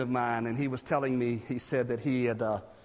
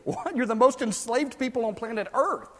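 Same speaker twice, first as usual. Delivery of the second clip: high incredulous laugh then what; laughing disbelief; 5 semitones higher than usual. Pretend.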